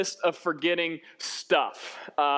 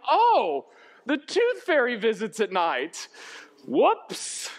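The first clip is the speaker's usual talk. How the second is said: sudden realization; 4 semitones higher, much slower than usual. Acted. Parent waking up to a forgotten tooth fairy, dismayed. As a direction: act out a parent's oops moment.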